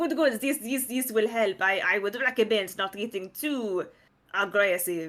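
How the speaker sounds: put-on French-accented character voice. Voicing a character who hands over a badge: French accent.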